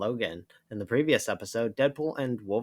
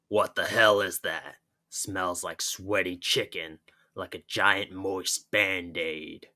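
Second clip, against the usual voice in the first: disgusted gruff Wolverine. Acted.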